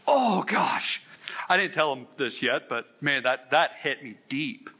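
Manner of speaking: emotional, near tears, slowing down; choked up. Real, not acted. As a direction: voice catching with real emotion. Moved recalling friend's words.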